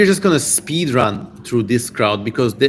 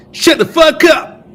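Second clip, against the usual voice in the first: high, loud shout at the demon; mock yelled silencing; 14 semitones higher, 6 dB louder than usual. Streamer silencing the demon in a high yelled shout. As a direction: yell it to shut the demon up.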